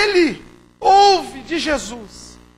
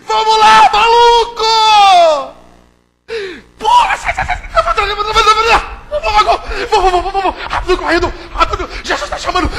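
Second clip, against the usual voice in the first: frantic, much higher hyped-up calling; excited urging shout; 6 semitones higher, 11 dB louder than usual. Acted. Disciple rousing the blind man, frantic joyful shout. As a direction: yell him up off the ground, laughing. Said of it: "Ele fala".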